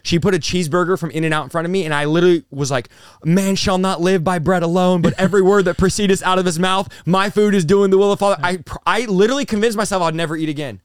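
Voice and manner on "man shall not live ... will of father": raised, insistent scripture quoting; mock zealous declaiming. Son refusing mom's cheeseburger with scripture, hammed-up zealous declaiming. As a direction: proclaim it like an overzealous new convert.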